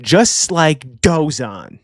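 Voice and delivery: very slow, weighty name drop; ominous reveal. Retold or imitated. Reviewer quoting Imu revealing another name, ominous. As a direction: draw out each word for a dramatic reveal. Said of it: "he goes on to reveal another name".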